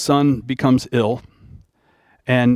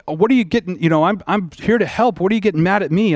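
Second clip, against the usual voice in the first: a touch of hurt indignation, pitched higher; lightly voiced, half-hearted irritation; mock upset; 5 semitones higher, faster than usual. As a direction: play being offended when you came to help. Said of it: "I would get a little bit upset".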